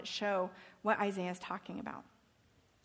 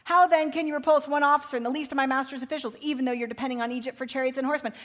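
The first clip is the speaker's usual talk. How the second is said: threatening field commander; 2 semitones higher, 5 dB louder than usual. Acted. Assyrian commander taunting Hezekiah's men, loud and proud. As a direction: announce it like a conqueror's herald. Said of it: "the king of Assyria says".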